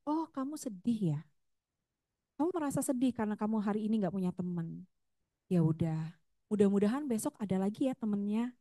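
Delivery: gentle, understanding mother's voice; calm comfort for a child with no friend to play with; validating, gentle. Shown as a demonstration. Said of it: "Validasi emosi adalah seperti ini".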